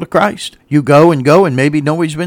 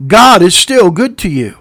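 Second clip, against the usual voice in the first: louder, punchy and quicker flowing; emphatic repeat; 3 semitones higher, 5 dB louder than usual. Real, not acted. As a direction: drive "God is still good to you" home loudly. Repeats it more forcefully.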